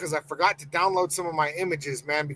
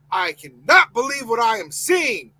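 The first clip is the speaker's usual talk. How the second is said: outraged shout, the word cannot hit hardest; 4 semitones higher, 4 dB louder than usual. Real, not acted. Host furious at the coach news, shouting. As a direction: let it burst out as a real shout. Same line, now shouted.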